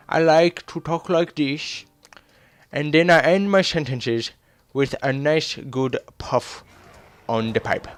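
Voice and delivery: lightly voiced gentleman detective with pipe; fancy Sherlock Holmes voice. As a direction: talk like a pipe-puffing gentleman. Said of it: "fancy Sherlock Holmes-like character".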